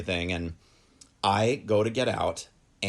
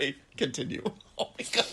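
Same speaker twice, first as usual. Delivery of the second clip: laughing; 5 semitones higher, 6 dB quieter, much faster than usual. Real, not acted. Cramping up.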